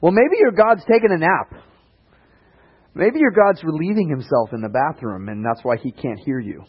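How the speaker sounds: high, mocking taunt that sinks at the end; sarcastic. Elijah mocks the prophets of Baal, sarcastic. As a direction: needle them, playfully scornful. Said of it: "he's kind of a sarcastic guy".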